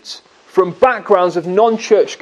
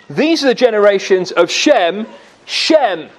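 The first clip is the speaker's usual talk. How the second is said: Shem repeated with weight, falling; a proclamation stressing Shem; emphatic Shem. Retold or imitated. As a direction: hammer home Shem twice. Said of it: "with great emphasis".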